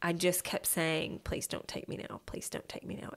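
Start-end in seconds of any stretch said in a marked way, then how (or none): 1.2-3.1 whispered, desperate, pleading tone. Retelling her own words in the ambulance: imitating her own begging. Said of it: "And I was begging God".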